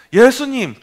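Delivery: loud, high cry of Jesus' name. Retold or imitated. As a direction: call out over the crowd. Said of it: "더 크게 부르짖었어요".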